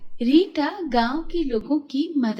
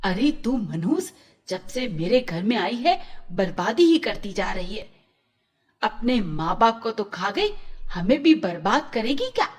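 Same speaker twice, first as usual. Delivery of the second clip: scolding aunt. Acted. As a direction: berate the girl as a jinx. Aunt berates Rita.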